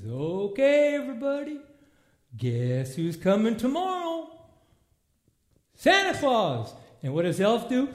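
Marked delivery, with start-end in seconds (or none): 0.1-6.7 higher, louder PA announcer voice; mall announcement. Retold or imitated. Preacher retelling Elf, imitating the mall announcer on the PA. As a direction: call it out like a store loudspeaker. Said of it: "the announcement comes over and it says".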